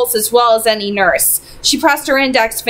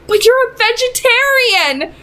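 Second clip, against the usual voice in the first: high, pleading mother voice; distraught mother; 13 semitones higher than usual. A narrator's reading. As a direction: voice the mother on the edge of tears. Mother near tears, disbelieving.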